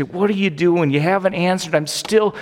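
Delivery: slow, drawn out grumbling; frustrated complaint. Retold or imitated. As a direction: sound fed up with God. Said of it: "we get confused and we say".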